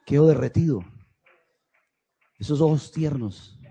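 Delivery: hushed tenderness; sweet, tender. Acted. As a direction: speak gently and low, as in an intimate moment. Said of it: "Es un momento dulce".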